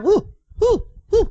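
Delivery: high huh calls to drive cattle; cattle-herding call. Retold or imitated. Grandpa calling the cows home, high herding cries. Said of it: "halus lembu dia masuk kandang".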